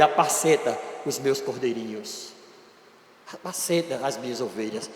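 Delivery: soft, low, gentle charge; tender command. Acted. Jesus gently entrusting his sheep to Peter, soft and tender. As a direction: hand him the task gently, almost hushed.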